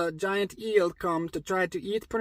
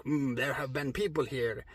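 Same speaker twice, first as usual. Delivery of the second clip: lightly voiced king, low and soft; a hint of a grumpy low murmur; 4 semitones lower, 5 dB quieter than usual. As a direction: lower and quieter, mildly grumpy. Grumpy King speaks in retold story.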